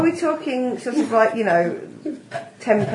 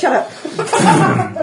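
laughing; 4 dB louder than usual. Real, not acted. Teasing friend, laughing.

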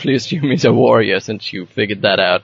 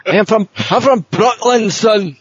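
mock Scotsman claiming Brooklyn; 10 semitones higher, slower than usual. Mocking a Scot's lie to the table, hammed-up high Scots accent. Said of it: "a Scotsman saying he's from Brooklyn".

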